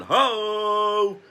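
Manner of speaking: high, loud hoarse-free whoop of his catchphrase; Hacksaw Duggan yell. Retold or imitated. Reviewer mimics the wrestler's trademark cheer, high loud whoop. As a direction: belt it like the wrestler's signature call.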